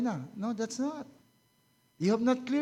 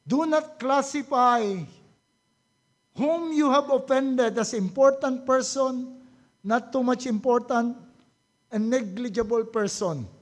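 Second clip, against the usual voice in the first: loud preaching emphasis; 5 dB louder than usual. Real, not acted. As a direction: press the point on the congregation. Preacher exhorting congregation. (malakas na pangangaral)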